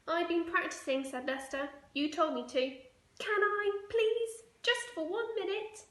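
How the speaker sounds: put-on high, loud begging boy; high-pitched pleading kid voice; pleading child. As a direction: wheedle like a small boy.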